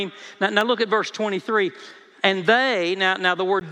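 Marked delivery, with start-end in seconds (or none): 2.2-3.0 "they" hit firmly; stress on THEY. Shown as a demonstration. Preacher reads out verse twenty-three, stressing "they". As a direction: punch "they" as the emphatic word. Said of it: "is emphatic".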